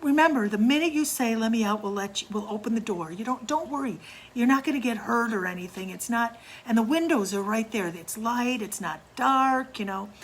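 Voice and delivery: mock-reassuring siblings egging him on; coaxing. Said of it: "We're like".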